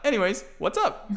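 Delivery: put-on very high giggly little boy voice; kid Aiden laughing. Aiden greeting Thornton as pop, laughing. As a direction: chirp it while cracking up.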